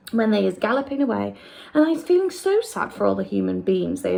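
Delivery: quick, lightly voiced friendly giant; BFG voice. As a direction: explain it like the big friendly giant. BFG long speech.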